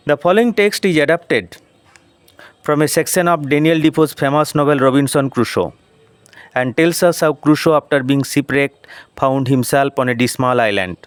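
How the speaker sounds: slow, careful read-aloud of English; deliberate classroom reading pace; slow textbook reading. Shown as a demonstration. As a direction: read each word out slowly for the class. Teacher reads English text aloud.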